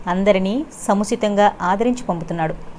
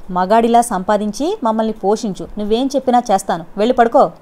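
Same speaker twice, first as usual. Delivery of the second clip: curt retort. Acted. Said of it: "అన్నది విసురుగా".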